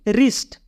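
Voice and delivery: रिस्ट with the W silent, starting on R. Shown as a demonstration. Teacher showing learners how wrist is pronounced, रिस्ट with silent W. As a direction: say रिस्ट beginning straight on the R sound. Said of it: "क्या पढ़ेंगे?".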